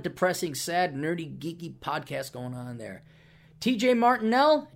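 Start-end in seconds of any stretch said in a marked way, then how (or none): 3.6-4.7 announcer shout. Acted. Announcer plugging a podcast name.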